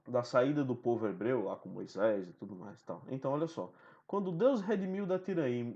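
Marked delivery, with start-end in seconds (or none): 4.1-5.7 verse read at natural pace, not scanned; plain recited verse; normal poem reading. Shown as a demonstration. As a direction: read the line flowing like a poem. Reads the sonnet aloud.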